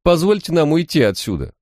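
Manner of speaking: very high, crying plea; tearful pleading. A narrator's reading. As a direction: beg through tears. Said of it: "Женщина заплакала и взмолилась".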